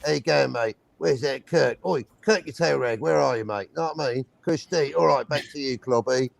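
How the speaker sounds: lightly voiced Cockney Spock; a hint of Cockney geezer; Cockney accent. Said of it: "Cockney Spock".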